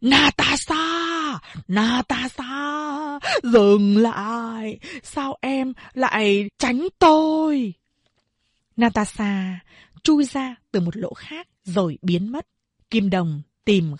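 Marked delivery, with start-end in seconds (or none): 0.0-7.7 high, slow, drawn-out calling; a man shouting after a vanishing girl; calling out loudly. Acted. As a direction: call her name long across the tunnel. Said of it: "gọi toáng lên".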